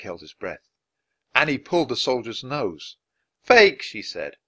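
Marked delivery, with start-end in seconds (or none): 3.4-3.8 high loud fake; gleeful proof; gleeful declaration; triumphant. Annie tugs soldier's nose.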